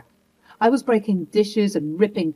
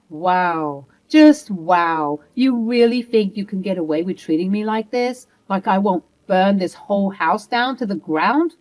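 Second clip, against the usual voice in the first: louder, bitter and threatening; furious disbelief; 3 dB louder than usual. Acted. Wife threatening her cheating husband, furious. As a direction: threaten him with cold fury.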